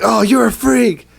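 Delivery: high mocking disgust; mock disgusted townsfolk. Retelling townspeople recoiling from the freak, high sneer. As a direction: sneer it like a snob. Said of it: "And they're like".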